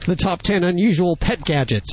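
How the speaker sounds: hoarse, strained voice; losing his voice. Real, not acted. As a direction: voice giving out, hoarse. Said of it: "I'm losing my voice already".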